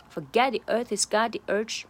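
"earth" run straight into "he's"; "he's" losing its H after "earth"; linked, dropped H. Shown as a demonstration. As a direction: link "earth he's" with barely any H. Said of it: "前面解决了".

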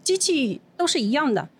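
imitating a server's textbook explanation; lightly voiced standard customer-service reply; by-the-book server. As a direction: recite company procedure politely, phrase by phrase. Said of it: "服务员就很标准地跟我说".

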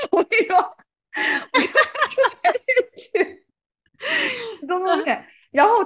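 can't stop laughing as she tells it; laughing while talking. Real, not acted. Telling a friend about her husband, laughing.

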